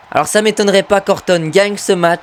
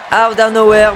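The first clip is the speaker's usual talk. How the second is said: English catchphrase in a thick French accent; 3 dB louder than usual. Real, not acted. Gamer echoing the commentator's catchphrase, in a thick French accent. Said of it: "vous noterez mon accent".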